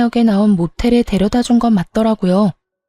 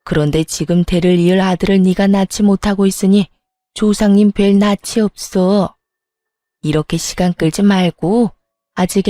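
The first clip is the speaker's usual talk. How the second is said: lightly voiced patriarch, slightly lowered and measured; a hint of an authoritative father laying down orders; stern family patriarch. Father orders his sons about the family heir, lightly voiced stern patriarch.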